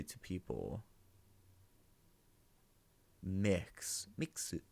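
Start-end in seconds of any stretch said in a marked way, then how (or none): 4.2-4.6 mixu said higher, the Japanese way, mi-ku-su; Japanese pronunciation. Shown as a demonstration. Listing Japanese terms for viewers, mixu said Japanese style. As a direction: say mixu as the loanword mikkusu, ending in u. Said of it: "is also sometimes used".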